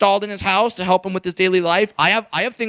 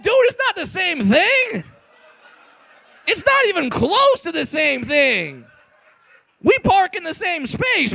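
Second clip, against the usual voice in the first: indignant protest; 6 semitones higher than usual. Retold or imitated. Comic answers fan's clumsy compliment, mock-outraged objection. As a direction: protest high and incredulous, stretching the words.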